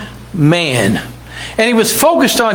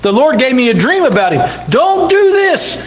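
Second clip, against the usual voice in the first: higher, urgent pleading wife; a hint of a frightened wife; 4 semitones higher than usual. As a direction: beg him to spare the man. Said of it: "she said".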